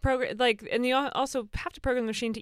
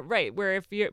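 ordinary talk, nothing marked

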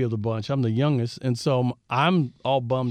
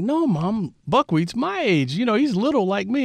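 imitating his younger self in a higher voice; kid voice; 8 semitones higher than usual. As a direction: play yourself at three, insisting to mom. Retold three-year-old arguing with mom.

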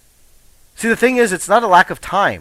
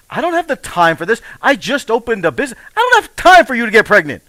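spiral from worry into outburst; panicked inner voice; 3 semitones higher than usual. Retold or imitated. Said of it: "And I'm thinking".

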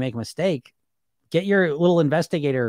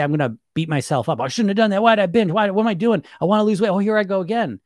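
louder, higher self-scolding rant; mock beating yourself up, louder; 4 semitones higher, 4 dB louder than usual. Berating yourself over a binge, hammed-up and louder. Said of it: "Or you say".

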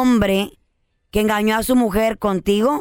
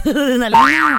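laughing; 3 semitones higher, 4 dB louder than usual. Real, not acted. Mocking the adrenaline comment.

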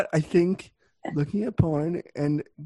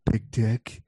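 slow, lightly put-on deep persona; Christian Bale Batman voice; 3 semitones lower, much slower than usual. Caller boasts on the chat line, in a slow mock-Batman voice. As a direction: draw out the boast in a mock seductive voice. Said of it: "the Christian Bale Batman voice".

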